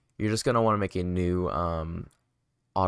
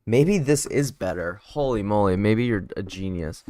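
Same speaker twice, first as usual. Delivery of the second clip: excited; 6 dB louder than usual. Real, not acted. Delighted by a chat suggestion.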